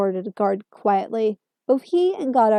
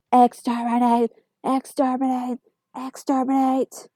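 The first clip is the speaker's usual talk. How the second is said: Dalek voice; 2 semitones higher than usual. Acted. Dalek voice, grating and robotic.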